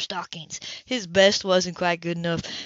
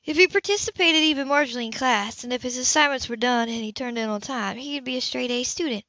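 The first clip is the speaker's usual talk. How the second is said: lightly voiced Anna; 3 semitones higher than usual. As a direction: make the case for the boy. Female character voice, higher.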